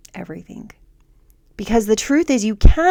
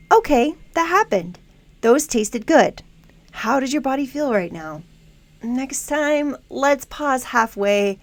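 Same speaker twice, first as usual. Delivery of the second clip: supportive coach voice; 4 semitones higher than usual. Acted. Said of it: "your supportive coach voice will say".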